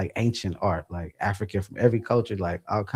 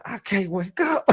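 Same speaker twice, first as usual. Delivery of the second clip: retold panicked scream; 9 semitones higher, 4 dB quieter than usual. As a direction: imitate screaming in panic, held back. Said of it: "I'm screaming".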